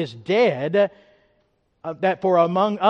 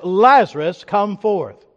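raised preacher's call to Lazarus; loud cry; 4 dB louder, slower than usual. Retold or imitated. Quoting Jesus calling Lazarus from the tomb, raised voice. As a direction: call it out firmly, short of a shout. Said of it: "he cried with a loud voice".

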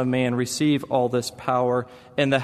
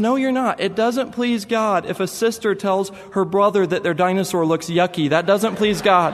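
put-on a small boy lecturing his sister; little boy scolding; 5 semitones higher than usual. Son insists.

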